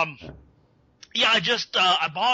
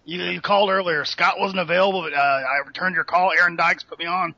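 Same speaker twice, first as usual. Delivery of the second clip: Alex Jones impression; 2 semitones lower than usual. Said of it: "it's Alex Jones".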